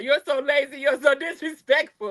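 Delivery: lightly mocking scolding husband; a touch of a nagging husband. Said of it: "this tone is coming from".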